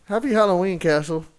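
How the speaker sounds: muffled, as if masked; through a face mask. Real, not acted. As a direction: talk behind a mask. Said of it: "talking through a mask?".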